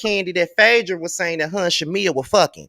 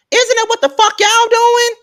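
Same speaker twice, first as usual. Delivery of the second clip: high, louder indignant question; outraged callout; 5 dB louder than usual. Real, not acted. Calling out Sheree's hypocrisy, high and indignant. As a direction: throw it back at them, squealing.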